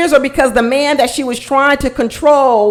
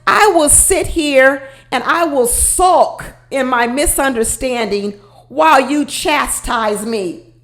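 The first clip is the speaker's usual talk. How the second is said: mock sulky woman; slower than usual. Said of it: "Then she pulls and says".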